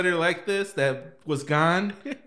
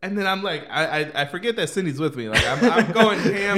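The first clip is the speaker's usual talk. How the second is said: excited laughing; 3 semitones higher, 5 dB louder than usual. Real, not acted. Hyped retelling of concert chaos.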